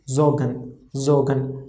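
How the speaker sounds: zogan said with a voiced z and a silent r; German pronunciation demo. Shown as a demonstration. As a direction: say zogan as zoh-gan. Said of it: "overall pronunciation is zogan".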